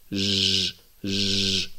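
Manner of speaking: ج buzzed out with flowing air; wrong soft jim. Shown as a demonstration. Teacher imitating a wrong fricative jim. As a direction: let ج hiss and flow. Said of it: "لا نقول ج".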